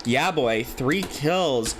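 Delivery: even, measured announcer read of the leaderboard; steady caster listing names and numbers; esports caster stat read. Acted. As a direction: read off the kill leaders like a broadcast. Casting kill leaders.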